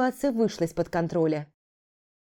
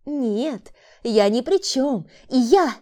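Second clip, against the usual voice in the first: higher, slow broken denial; frightened woman; 5 semitones higher, 5 dB louder, much slower than usual. A narrator's reading. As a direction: plead as he grips her. Woman pleads. (испуганное отрицание)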